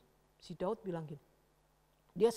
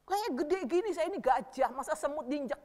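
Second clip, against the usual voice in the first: higher-pitched giant's taunt; Goliath's scornful boast; 6 semitones higher than usual. Acted. Goliath ridiculing David as an ant, mocking taunt. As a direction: belittle the tiny challenger. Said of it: "Ih, getawain dia".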